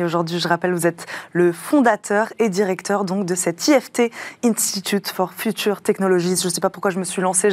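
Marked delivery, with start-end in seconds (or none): 3.7-6.4 put-on rough English accent on the English name. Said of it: "j'ai un accent anglais très approximatif".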